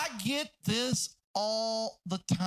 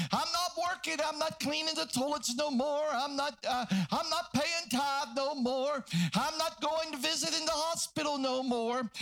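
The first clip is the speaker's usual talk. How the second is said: worked-up protest, higher at peaks; fed-up quitting; 4 semitones higher than usual. Acted. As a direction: voice a church member who has had enough. Acts out a church member quitting.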